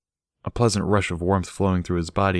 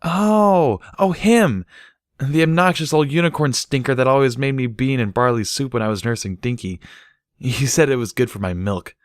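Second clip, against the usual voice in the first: sudden high, loud "oh, him" then a fond recollection; Derpy, surprised recognition; 6 semitones higher, 3 dB louder than usual. Acted.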